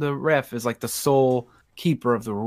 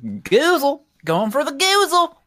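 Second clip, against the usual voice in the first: excited goozle call; 11 semitones higher, 3 dB louder than usual. Acted.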